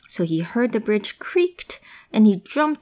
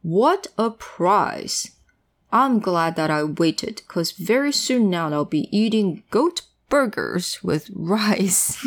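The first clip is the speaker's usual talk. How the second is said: gloating troll; slower than usual. Acted. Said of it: "he said".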